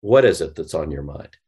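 soothing late-night radio voice. Shown as a demonstration. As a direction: talk yourself down like a late-night DJ. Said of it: "late night F M D J voice I can do".

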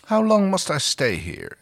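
high-pitched, lightly acted lament; despairing plea. Harvey dreads hiding in darkness, despairing plea. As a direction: plead upward, a touch of despair.

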